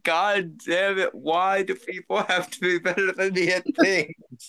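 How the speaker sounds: slow, drawn-out mock lament; mock exasperation. Friend voicing the other man's envy, mock exasperation. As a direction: imitate someone griping in envy. Teasing imitation of envious speaker.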